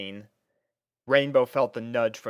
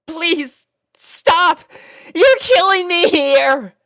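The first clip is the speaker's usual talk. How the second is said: very high, loud protest through laughter; laughing plea; 10 dB louder, much slower than usual. A narrator's reading. Rainbow pinned by kissing puppies, laughing and begging. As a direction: beg them to stop while giggling. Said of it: "not holding back her laughter".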